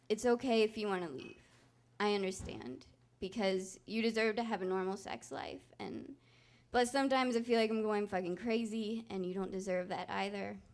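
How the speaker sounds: offering her partner a way out, quiet and sad; breaking down. Retold or imitated. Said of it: "So I break down".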